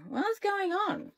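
slow, high, groggy question; sleepy confusion. A narrator's reading. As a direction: ask half-asleep and baffled. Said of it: "scratched my head and yawned".

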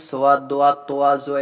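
সোয়াদ, দোয়া, তোয়া, জোয়া with a w-glide after the first consonant; old beginner's reading. Shown as a demonstration. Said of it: "এরকম করে পড়ছি". (সোয়াদ, দোয়া, তোয়া, জোয়া "ওয়া" দিয়ে পড়া)

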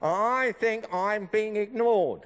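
squeaky ventriloquist dummy. Acted. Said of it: "he's gonna tell us a few jokes".

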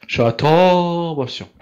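slow ironic drawl; drawn-out irony. Real, not acted. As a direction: stretch it sarcastically.

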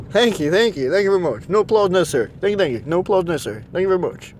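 tossing off a mock singer's sign-off; a light, understated impression of a famous singer. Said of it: "That's the singer"

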